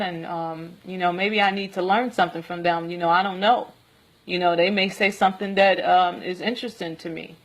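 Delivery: mild, even, unruffled answer; reply calmly, without rising to it; calm retold reply. Answering Leviathan that they may know something, calm. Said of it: "very calmly".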